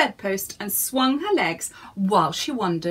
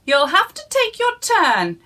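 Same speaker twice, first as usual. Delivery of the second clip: higher, louder brisk order; lightly voiced busy stallholder; busy carpenter; 8 semitones higher, 7 dB louder than usual. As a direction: tell him to wait, busily. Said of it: "he said".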